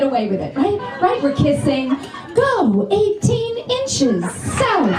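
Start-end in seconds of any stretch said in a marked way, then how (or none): 2.3-4.9 slow, calm mock sat-nav directions; lightly imitated navigation voice, slowed; GPS voice in bed. Comic directs her man in bed like the GPS lady. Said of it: "the right tone of voice".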